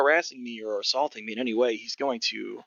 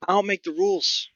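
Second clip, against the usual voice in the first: higher-pitched gruff goblin voice; gruff old goblin; 8 semitones higher than usual. Acted. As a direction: play a crusty old goblin selling tickets. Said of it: "Sort of this gruff old goblin".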